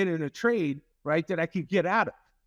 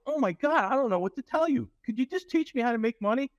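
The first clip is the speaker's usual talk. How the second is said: exasperated plea; 7 semitones higher than usual. Retold or imitated. Trader exasperated with bosses.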